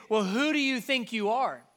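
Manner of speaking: indignant Pharisee's challenge, lightly acted; a bit of attitude. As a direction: confront him with some attitude. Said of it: "with a little bit more attitude".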